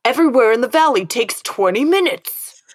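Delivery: lightly voiced Valley Girl; a hint of Clueless Valley Girl; Valley Girl quote. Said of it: "It's from Clueless".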